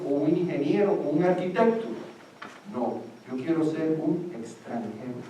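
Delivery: put-on a light child's voice, listing what he won't become; a kid rattling off jobs he doesn't want; voicing a Cuban kid. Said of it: "makes little kids say".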